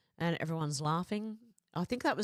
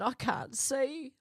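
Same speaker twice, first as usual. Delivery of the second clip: laughing while reading; 8 semitones higher, slower than usual. Real, not acted. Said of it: "Laughing so hard".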